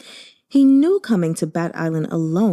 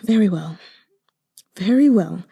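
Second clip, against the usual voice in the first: gritted out. Acted. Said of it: "he gritted out".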